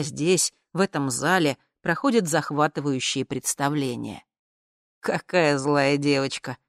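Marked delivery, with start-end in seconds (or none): 5.0-6.6 smiling tease. Acted. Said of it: "улыбнулся парень".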